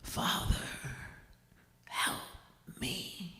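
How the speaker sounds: faint breathless whisper; drowning son begging his dad; feeble plea. Retold or imitated. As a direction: barely get the words out, freezing. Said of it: "and I said, I said".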